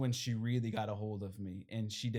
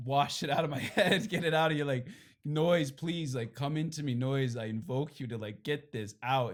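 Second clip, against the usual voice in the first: calling out to the noise; 3 semitones higher, 5 dB louder than usual. Retold or imitated. Pleading with washer noise.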